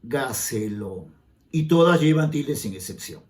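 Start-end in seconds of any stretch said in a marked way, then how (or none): 0.0-1.1 "Dígaselo" slowly, DÍ split from ga-se-lo; slow syllable demo of "Dígaselo", front-stressed; stress on first syllable. Shown as a demonstration. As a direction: hit DÍ in "Dígaselo", then let -gaselo fall away. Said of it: "su mayor fuerza de voz o sílaba tónica".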